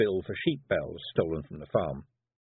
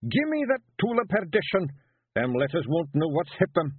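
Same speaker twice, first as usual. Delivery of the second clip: high Scots battle cry, louder; bold Feegle; 8 semitones higher, 4 dB louder than usual. A narrator's reading. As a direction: charge at the page like a warrior. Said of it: "snatched back the pencil".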